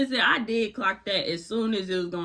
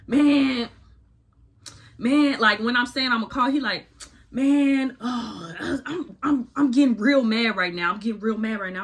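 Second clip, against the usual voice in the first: louder, mock-heated boyfriend voice; boyfriend getting mad; 2 semitones higher, 4 dB louder than usual. Boyfriend reacting to her plan to call, mock-heated voice. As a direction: ham up the boyfriend losing his temper.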